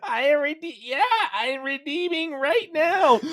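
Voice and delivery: put-on high, loud old-lady voice breaking into laughter; grandma voice. Friend voicing the grandma, high, loud and giggling. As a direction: play the oblivious grandma, giggling. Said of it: "pretending to be this grandma".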